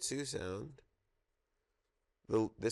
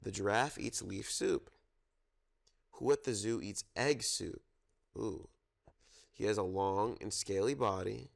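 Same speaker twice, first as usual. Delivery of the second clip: storytime reading. Acted. Reads zoo picture book aloud.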